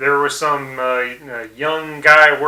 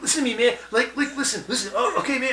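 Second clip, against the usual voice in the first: higher, soft rambling hippie voice; Woodstock guy; 9 semitones higher, 6 dB quieter, much faster than usual. Retold or imitated. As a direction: babble like a spaced-out Woodstock hippie. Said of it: "a Woodstock guy comes out".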